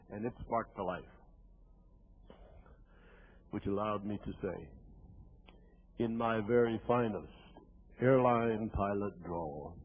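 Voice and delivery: teller to audience before the punchline, low, slow, hushed build-up; low and soft, drawing out the last words; low measured build-up. Retold or imitated. Teller recalls his radio coming alive, low and deliberate.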